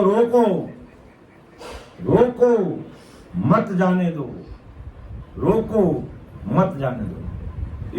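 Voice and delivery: high, urgent mock calls to halt; calling out. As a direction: call out in bursts, as if stopping people leaving. Voices gods calling out to stop souls. (ऊँचे सुर में रोकने की पुकार)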